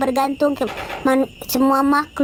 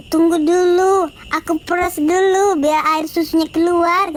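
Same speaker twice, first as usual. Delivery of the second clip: flustered mother; 4 semitones higher than usual. Acted.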